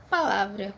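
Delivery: palavra with the stress on LA; stressed syllable demo. Shown as a demonstration. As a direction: say palavra leaning on the middle syllable LA. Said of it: "a sílaba forte". (palavra com a sílaba LA forte)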